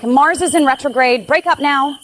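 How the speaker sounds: teasing the app idea with a mock cosmic warning; mock horoscope alert. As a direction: announce doom like a cheesy push alert. Mocking a horoscope notification.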